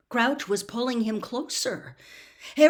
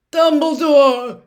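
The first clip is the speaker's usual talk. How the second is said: very loud, slow, strained cry of the name; delirious man gasping for help; gasped; 7 semitones higher, 15 dB louder, slower than usual. A narrator's reading. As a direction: force it out in a desperate gasp. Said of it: "gasped Mister Crouch".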